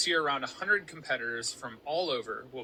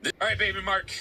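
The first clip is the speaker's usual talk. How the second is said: playful call; 5 semitones higher, 5 dB louder than usual. Real, not acted. Calling to child.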